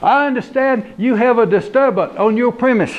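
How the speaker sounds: high, country yes'm; lightly voiced country deputy. Deputy greeting homeowner at door, country voice.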